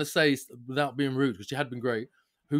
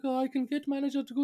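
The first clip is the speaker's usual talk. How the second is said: high mock agent voice; imitating call agent; 10 semitones higher, 3 dB quieter, faster than usual. Agent offering a manager, mocked in a high voice. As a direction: chirp it like a helpful agent. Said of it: "She's like".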